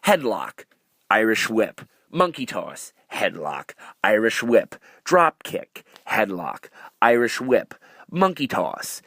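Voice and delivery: plodding list, a beat between moves; mock a monotonous match, move by move; demonstrating the pace. Shown as a demonstration. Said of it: "here's the pace".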